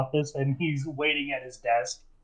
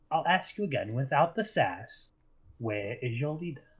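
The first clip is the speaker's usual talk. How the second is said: softer, quietly menacing; cold interrogator; 5 dB quieter than usual. Acted. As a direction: drop the voice to a threat. Eli asks again, cold.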